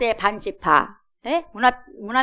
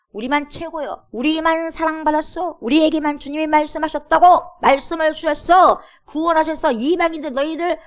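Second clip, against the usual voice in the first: mock boast; 6 semitones higher, 4 dB louder than usual. Mocking proud chosen people.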